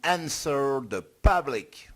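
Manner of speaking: proud little English-accent show-off on Answer the Public. Shown as a demonstration. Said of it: "j'assure quand même avec mon accent anglais".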